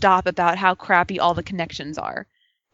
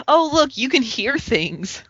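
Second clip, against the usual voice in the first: deadpan comeback; 4 semitones higher, slower than usual. Retold or imitated. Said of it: "my response was".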